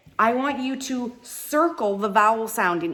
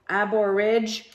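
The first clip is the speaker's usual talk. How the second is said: "Ab or ridge" slowly, each piece set apart; slow separated syllables in "Ab or ridge"; syllable split; slower than usual. Shown as a demonstration. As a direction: sound out "Ab or ridge" beat by beat. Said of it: "Where's my next split".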